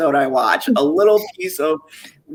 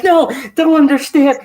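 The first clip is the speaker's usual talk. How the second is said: a sudden loud, higher whine of protest; mock whiny refusal; 8 semitones higher, 6 dB louder than usual. Husband protesting to his wife about watching, mock whine. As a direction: push back like a kid refusing, loud and high.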